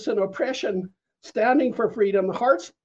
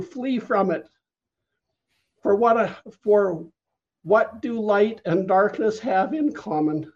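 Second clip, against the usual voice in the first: prophetic word. Retold or imitated. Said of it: "he came and he said".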